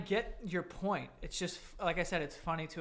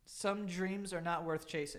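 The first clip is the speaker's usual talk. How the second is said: slower, weighing each word; slow skeptical repeat. Pretend. Friend repeats the quote slowly, doubting he made it up. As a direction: read it back slowly, doubting it. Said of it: "You think you came up with that?".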